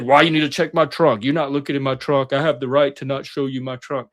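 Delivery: mock belligerent refusal; hypothetical uncooperative driver, mildly defiant; being an asshole. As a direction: push back like a difficult driver. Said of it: "I could have been an asshole and said".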